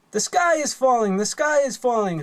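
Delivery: mock panic scream. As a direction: cry out that the sky falls. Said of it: "when she screamed".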